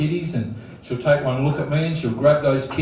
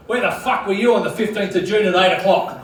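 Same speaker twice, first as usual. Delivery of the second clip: retold angry interrogation, raised pitch; mock screaming cop; 4 semitones higher than usual. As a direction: imitate a copper yelling a question in your face. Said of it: "screaming in my face going".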